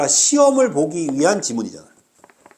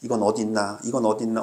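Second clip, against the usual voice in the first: low, subdued muttering while hunting through a text; mimicked searching student; 8 semitones lower, 5 dB quieter than usual. Teacher imitating a student hunting for answers, low searching mutter. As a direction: mutter it low and soft, as if scanning for something. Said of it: "열심히 찾아다녔지, 이렇게".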